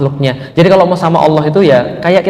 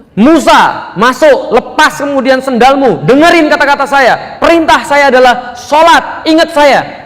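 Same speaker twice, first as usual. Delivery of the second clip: stern divine voice; 8 semitones higher, slower than usual. Retold or imitated. God commands Moses on the mountain.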